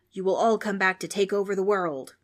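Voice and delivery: a ghost revealing their destiny; a lightly hammed-up ghost; grand ghostly pronouncement. Ghost declares big plan.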